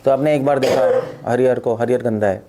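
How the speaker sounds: ordinary talk, nothing marked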